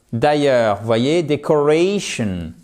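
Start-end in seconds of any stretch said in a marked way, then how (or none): 1.2-2.5 decoration slowly, leaning on "ra"; stress on next-to-last syllable. Shown as a demonstration. Teacher showing the noun's accent, decoration stressed on "ra". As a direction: stretch the "ra" in decoration. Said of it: "un accent tonique sur l'avant-dernière syllabe".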